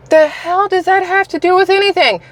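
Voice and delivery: high, disbelieving outburst; incredulous. Real, not acted. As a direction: scoff at the answer in disbelief. Mocking a politician's dodge.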